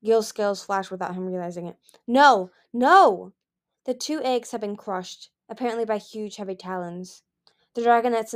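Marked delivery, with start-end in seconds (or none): 2.0-3.3 loud, higher howl of grief; anguished cry. Acted. Gil seeing his dead daughters, crying out in grief. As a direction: cry out in despair. Gil grieving crushed eggs.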